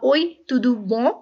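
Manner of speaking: "Oi, tudo bom?" very slow, "bom" ending nasal; slow nasal demo. Shown as a demonstration. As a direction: hold the nasal "bom" at the end. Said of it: "ये जो bom वाला".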